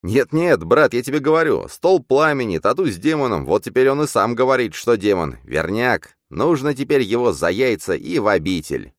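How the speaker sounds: high, loud, insistent sidekick voice; high-pitched agitated character; excited double. Acted. Double urging Bogdan.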